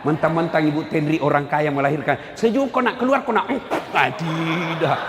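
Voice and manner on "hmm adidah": mock serene mother. Mother smiling while giving birth.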